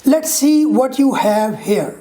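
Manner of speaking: "what you" as separate words; full form. Shown as a demonstration. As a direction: give "you" its full vowel. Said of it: "This is a full form".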